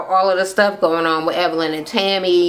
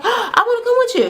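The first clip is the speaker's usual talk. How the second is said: high, laughing plea; high giggly mock begging; whiny pleading Jackie. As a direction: beg to tag along in a high voice. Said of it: "And Jackie's like".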